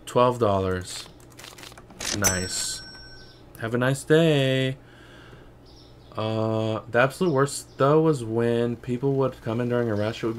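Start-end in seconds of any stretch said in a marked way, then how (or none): 0.1-4.8 slow, drawn-out shop clerk politeness; mock cashier voice. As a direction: play the sleepy polite cashier. Cashier voice to game customer.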